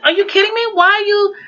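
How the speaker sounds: high, indignant disbelief; retold disbelief. Ivy protesting to coworkers, high disbelief. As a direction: demand an answer, incredulous.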